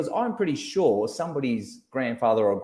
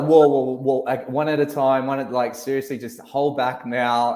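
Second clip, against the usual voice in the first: hammed-up God holding back a crowd of prayers, louder; God overwhelmed; 2 semitones higher, 5 dB louder than usual. God swamped by a class praying at once, louder, mock-flustered. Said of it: "God would be like".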